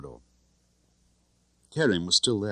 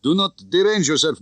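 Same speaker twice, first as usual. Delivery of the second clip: higher, louder falsely polite; mock polite; 10 semitones higher, 6 dB louder than usual. A narrator's reading. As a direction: fake courtesy through the door. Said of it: "I said politely".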